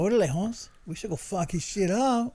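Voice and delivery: put-on high Latino homeboy accent; mock-angry Latino voice; Latino payback voice. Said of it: "You got the Latino".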